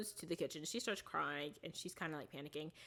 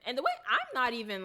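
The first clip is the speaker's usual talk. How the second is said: laughing; 7 semitones higher, 6 dB louder, faster than usual. Real, not acted. Laughs mid-sentence.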